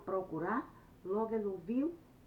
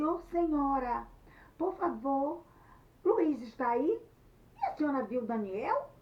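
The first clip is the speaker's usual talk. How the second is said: higher, louder, urgent questioning; urgent appeal; 7 semitones higher, 7 dB louder than usual. Acted. Anete asks Luiz's mother where they are, urgent and raised. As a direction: call out anxiously for the lady of the house.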